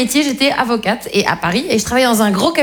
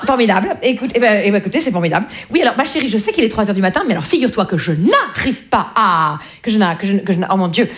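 flustered mother. Acted. Mother caught out, embarrassed babbling.

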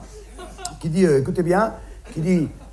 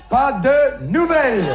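slow proverb; 4 semitones higher than usual. Shown as a demonstration. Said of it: "les Chinois disent".

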